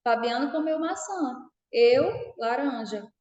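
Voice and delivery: rising "eu", small break, then "laranja" falling; pause after EU. Shown as a demonstration. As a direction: mark the dropped verb with a pause after "eu". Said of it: "pela entonação a gente consegue".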